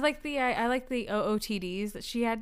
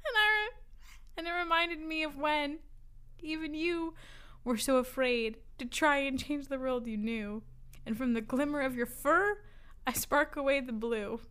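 measured, lilting poem recital; poetry reading; 3 semitones higher, 3 dB quieter than usual. Real, not acted. Reading mystery fan poetry to friends, measured recital. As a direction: read it as earnest verse with pauses.

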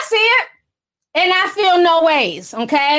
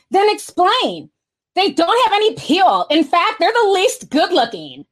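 put-on Valley Girl voice; 3 semitones higher than usual. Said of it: "I got my Valley Girl voice on".

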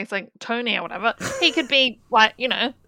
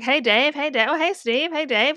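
lightly mimicked chummy townsfolk; mock casual greeting; 5 semitones higher than usual. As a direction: toss out higher, over-familiar hellos.

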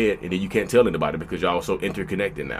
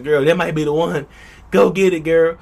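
cheering a friend on, higher and louder; hype commenter; 7 semitones higher, 4 dB louder than usual. Retold or imitated. Comment section cheering on the girl, mock hype-up. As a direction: hype her up like a commenter yelling go get it. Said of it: "people in the comment section".

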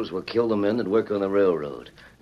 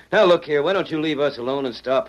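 angry; 5 semitones higher, 5 dB louder than usual. Acted. Gang member confronts the Ranger.

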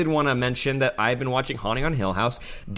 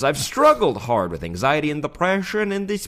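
higher-pitched, put-on Australian accent; 4 semitones higher than usual. Shown as a demonstration. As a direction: read it in a wandering mock Australian accent. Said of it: "that was actually his Australian accent the whole way through".

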